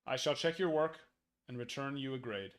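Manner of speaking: loud, pompous schoolteacher; teacher voice. Pretend. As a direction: announce it like a strict teacher grading papers. Grading teams like a teacher.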